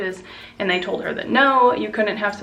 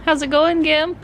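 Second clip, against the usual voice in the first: higher, louder cooing greeting; high pet voice; 8 semitones higher, 6 dB louder than usual. Real, not acted. Owner teasing her limping dog, in high pet voice.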